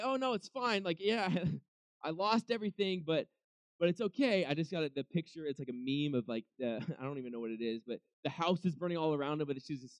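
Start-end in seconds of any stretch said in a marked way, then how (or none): 0.0-4.4 mock fake cheer. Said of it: "He's not like".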